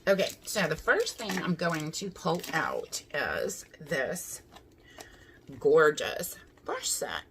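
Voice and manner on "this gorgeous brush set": slow hushed whisper. Real, not acted. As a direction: breathe it out slowly. Whispered reveal of brushes.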